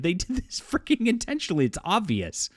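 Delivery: high-pitched indignant outburst, real; outraged outburst. Real, not acted. To viewers about the ceremony, a high indignant outburst. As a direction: burst out in disbelief at the intent.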